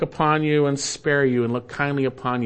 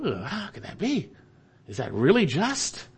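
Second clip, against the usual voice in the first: doubting flesh; 3 semitones higher than usual. Retold or imitated. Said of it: "In our flesh we go".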